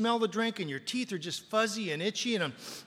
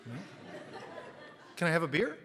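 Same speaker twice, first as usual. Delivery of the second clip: sheepish apology; 6 dB quieter than usual. Retold or imitated. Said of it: "I looked down at my shoes and I went".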